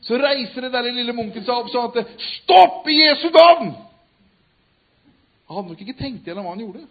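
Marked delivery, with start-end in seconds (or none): 2.3-3.8 full-voiced high shout, slowly; shouting stop. Monk shouting at the arena crowd to stop. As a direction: cry out to halt the fight.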